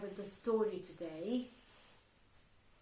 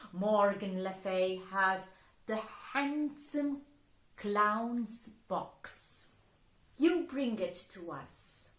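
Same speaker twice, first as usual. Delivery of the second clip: fairy's command; 5 dB louder than usual. Acted. Fairies give orders.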